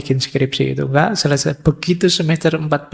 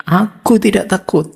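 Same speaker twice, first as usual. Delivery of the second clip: scared shout; 5 semitones higher than usual. Retold or imitated. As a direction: shout it to hide the fear. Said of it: "sambil teriak". (teriakan nyaring menutupi rasa takut)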